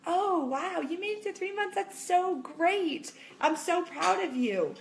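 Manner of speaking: sweetly impressed, stretching the praise; gushing encouragement. Shown as a demonstration. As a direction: model an admiring, supportive reaction. Models a kind, encouraging response.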